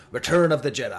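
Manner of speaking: put-on British announcer accent slipping Australian; wobbly British-Australian announcer; attempted British accent. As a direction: try a British accent, loud, landing Australian. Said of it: "I'm an Australian again".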